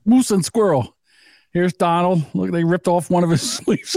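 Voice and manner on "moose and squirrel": Natasha. Acted. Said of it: "Natasha from the fucking Bullwinkle cartoons".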